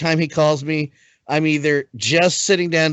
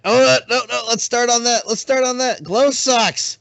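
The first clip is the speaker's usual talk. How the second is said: retold excitement; 5 semitones higher than usual. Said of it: "I was like".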